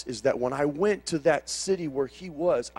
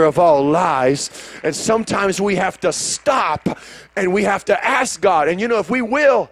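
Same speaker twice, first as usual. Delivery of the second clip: loud, rising preacher's cry; full-force preaching; 8 dB louder than usual. Acted. Preacher lifts the church into a loud climactic prayer. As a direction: build the congregation up to a shout.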